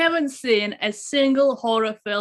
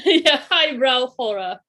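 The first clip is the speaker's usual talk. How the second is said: laughing; 4 semitones higher, 4 dB louder, slower than usual. Real, not acted. Laughing at friend's remark.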